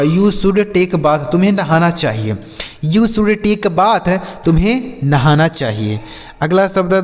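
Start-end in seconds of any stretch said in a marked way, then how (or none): 0.0-1.3 each word said very slowly and clearly; slow clear English. Shown as a demonstration. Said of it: "जैसे". 2.8-4.2 each word said very slowly and clearly; slow clear English. Shown as a demonstration. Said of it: "जैसे".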